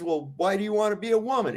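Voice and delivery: quick incredulous ask; lightly voiced confused comrade; puzzled rebel. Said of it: "he goes".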